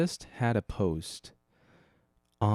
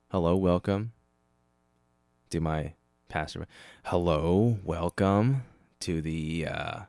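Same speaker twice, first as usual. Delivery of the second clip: lightly voiced stoner pastor, slow; a hint of a laid-back stoner preacher greeting; pastor impression; slower than usual. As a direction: mellow pastor welcome, drawn out. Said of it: "this is what my pastor sounds like".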